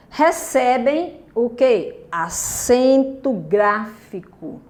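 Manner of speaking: slow, drawn-out question and answer; slow teacher prompt. Shown as a demonstration. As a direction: let the class fill in "recebem o quê? Acento gráfico" slowly. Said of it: "teacher prompting the answer".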